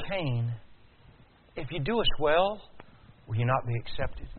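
gentle, unhurried reasoning; calm. Acted.

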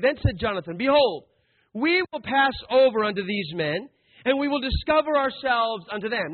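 firm, declaiming Bible reading; scripture reading. Acted. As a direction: read it out like a King James verse. Reads scripture aloud.

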